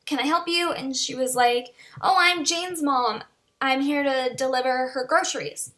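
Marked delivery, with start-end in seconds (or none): 0.0-0.7 hesitant, puzzled polite question; confused. Retold or imitated. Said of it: "I was really confused". 2.0-5.7 friendly visiting mom. Retold or imitated. Mother introduces herself at door.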